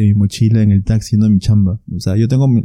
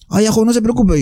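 higher-pitched, lightly voiced old cabbie; a hint of an obliging old man, pitched up; elderly taxi driver; 9 semitones higher than usual. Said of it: "era un señor mayor".

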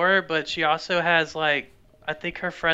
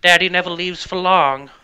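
cocky daddy voice; 2 semitones higher, 7 dB louder than usual. Acted. Boastful persona line.

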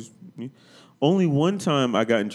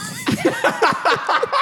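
shrill mock laugh; 4 dB louder than usual. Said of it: "in her loud Jamaican accent".

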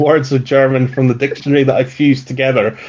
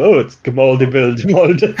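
a light Swedish-chef lilt on the demon's name; playful fake Swedish accent, laughing through it; mock Swedish accent. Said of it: "we have to say it in that accent".

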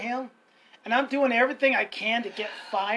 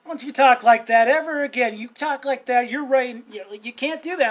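raised-voice scolding; acted stern reprimand; retold telling-off; 2 semitones higher, 7 dB louder than usual. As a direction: come down on a child with a warning. Retold habit of yelling at kids.

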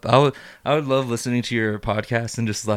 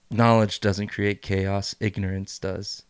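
slow, deliberate; 3 semitones lower, slower than usual. Retold or imitated. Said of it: "And Lucy goes".

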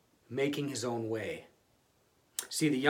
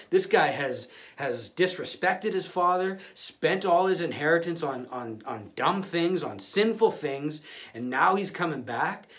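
eager, louder gloating, pitch up; 4 semitones higher, 4 dB louder than usual. Retold or imitated. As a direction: relish the punishment coming. Pharisees gloat over son's return.

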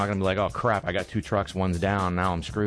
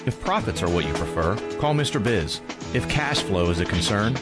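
punchy radio commercial read; hard sell ad. Acted. Host reads his own ad.

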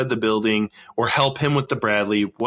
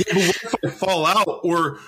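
lightly voiced worried soldier; 6 semitones higher than usual. Voicing worried soldier, laughing.

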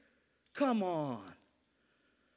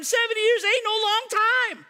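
higher and louder, hammered home; emphatic rebuttal; 10 semitones higher, 5 dB louder than usual. Real, not acted. Preacher answering the old-timers, loud and emphatic. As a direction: knock the complaint flat.

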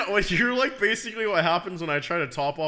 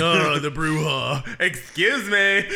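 mock grand greeting; slower than usual.

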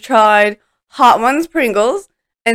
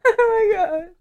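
laughing; 7 semitones higher, 3 dB quieter than usual. Real, not acted. Can't stop laughing at clip.

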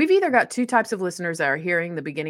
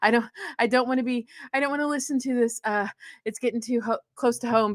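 higher-pitched, faltering mock worry; imitated nervousness; 5 semitones higher than usual. Host voicing listeners who fear being found out, mildly nervous mimicry. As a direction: stumble along like an uneasy listener. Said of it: "they're getting nervous".

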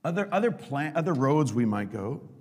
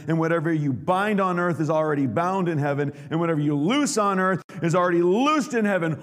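proclaiming blessing; 3 semitones higher, 4 dB louder than usual. Retold or imitated. Jesus blessing Peter, proclaimed.

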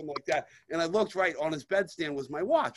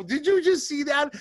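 high, stunned retold exclamation; hissed disbelief at the window; amazed retold gasp of a question; shocked whisper-yell; 9 semitones higher than usual. Retelling spotting roommate through window.

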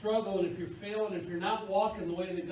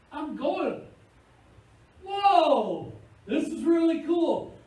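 thrilled driver; 10 semitones higher, 9 dB louder, slower than usual. Retold or imitated. Driver thrilled car finally moves.

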